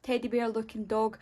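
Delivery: a hint of an eager fan asking; curious viewer voice. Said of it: "Some of you might be wondering".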